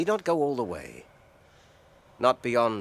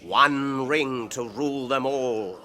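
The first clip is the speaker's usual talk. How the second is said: grave recitation; slower than usual. Acted. Frodo recites ring verse.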